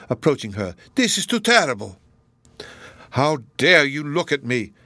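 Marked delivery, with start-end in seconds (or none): 1.0-2.0 high, loud distraught cry; anguished cry. Acted. Donatello horrified at Miriam's frenzy, anguished cry. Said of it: "cried Donatello". 3.1-4.7 slow, louder startled anger; startled outburst. Acted. Miriam caught by Donatello, startled angry outburst. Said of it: "exclaimed Miriam with a start".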